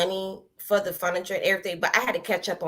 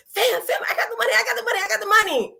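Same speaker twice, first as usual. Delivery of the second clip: high, laughing excited shout to family; 13 semitones higher, much faster than usual. Retold or imitated. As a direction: squeal the good news through laughter. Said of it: "I was so excited".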